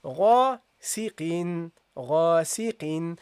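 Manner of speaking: غاسقين with a heavy, prolonged gha alif; careful Arabic model, ghain and alif heavy; Quran recitation model. Shown as a demonstration. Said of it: "so you say here".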